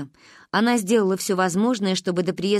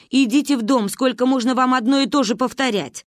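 exasperated scolding; 4 semitones higher, 4 dB louder than usual. A narrator's reading. Granny scolds panicking children.

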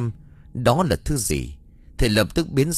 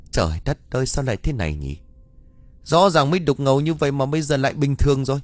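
stammering in shock; 5 semitones higher, faster than usual. Acted. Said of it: "liền lắp bắp".

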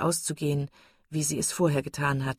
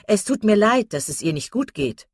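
high, loud, giddy gossip; silly chattering Miss Steele; 5 semitones higher, 7 dB louder than usual. A narrator's reading. Miss Steele bragging about the doctor, giddy chatter. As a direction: prattle on, pleased with herself.

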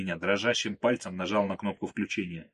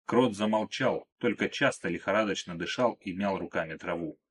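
plain reading voice

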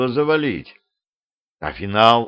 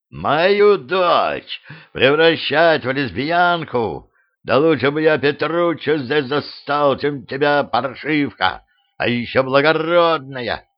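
enraged father; 3 semitones higher, slower than usual. Acted. Enraged king chases Desdemona.

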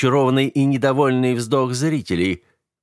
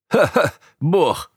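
slow, high mocking laugh over the word; 8 semitones higher, 3 dB louder, slower than usual. A narrator's reading. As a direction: laugh it off as nonsense. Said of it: "рассмеялся Умбаро".

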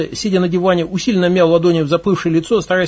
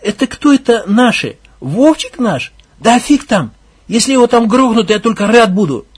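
slow, raised sneering; unhurried scorn; 5 semitones higher, 4 dB louder than usual. Acted. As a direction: drag it out contemptuously. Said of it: "не торопясь".

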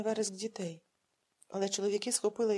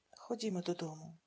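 softer, weary sigh; 3 semitones lower, 7 dB quieter than usual. A narrator's reading. Father sighing as he gives in to his daughter. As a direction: give in with a sigh. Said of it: "зітхнув він".

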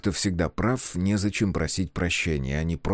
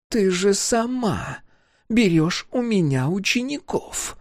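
barely contained anger; 12 semitones higher, slower than usual. A narrator's reading. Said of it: "едва сдерживая гнев".

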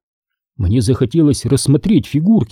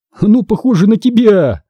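joking; 8 semitones higher, 3 dB louder than usual. A narrator's reading. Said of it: "пошутил я".

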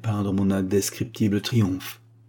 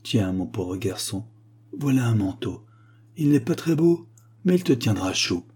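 tender mother. Acted. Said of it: "la brave femme me dit".

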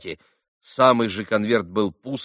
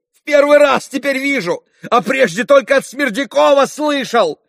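choking for breath; 12 semitones higher, 8 dB louder than usual. A narrator's reading. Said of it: "Совсем задыхался Митя".

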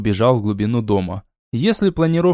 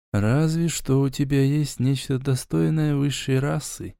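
haughty; 5 dB quieter than usual. Acted. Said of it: "Надменно вздёрнул я бровь".

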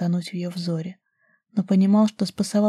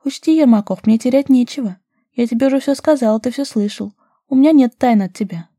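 put-on higher, louder, daring girl's voice; young woman challenging her lover, higher and louder; bold young woman; 5 semitones higher, 7 dB louder than usual. A narrator's reading. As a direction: play her cocky and unafraid.

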